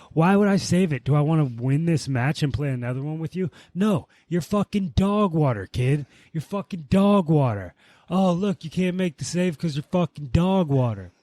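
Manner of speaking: a sing-song jeer of dog water; mocking taunt. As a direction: rub it in the kid's face, mocking. Taunting the kid in the game.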